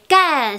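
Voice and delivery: "kan" said as gan, without air; unaspirated G. Shown as a demonstration. Teacher warning about a rude word, G sound in "kan". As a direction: start "kan" on a breathless G. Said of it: "c'est un gros mot".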